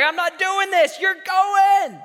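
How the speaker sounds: God ordering Moses to go; firm command. Retold or imitated.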